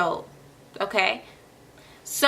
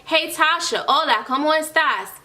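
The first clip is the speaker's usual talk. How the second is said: a higher, phone-call greeting; recorder voice; 5 semitones higher than usual. Pretend. The recorded voice greets the learner, a bit higher. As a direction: sound like a recording asking you. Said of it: "The voice recorder is gonna say".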